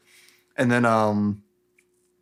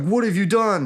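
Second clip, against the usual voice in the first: mock dismay; 9 semitones higher than usual. Retold confrontation with the betrayer.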